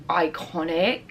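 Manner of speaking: says "Iconic." with crisp British vowels, aɪ-KON-ik; quoting the shop girl in British English, "Iconic."; British accent. Retold or imitated. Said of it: "in a British accent".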